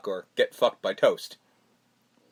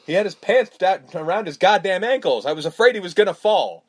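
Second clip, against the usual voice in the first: louder, agitated excuse; mock defensive; 3 semitones higher, 5 dB louder than usual. Patient justifying himself to his psychiatrist, hammed-up defensiveness. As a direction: protest it as the indignant patient.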